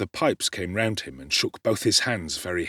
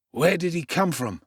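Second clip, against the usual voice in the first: higher, rough suspicious voice; rough doorman; 8 semitones higher than usual. A narrator's reading. Doorman questioning Dodger about Oliver, suspicious. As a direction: grill the Dodger.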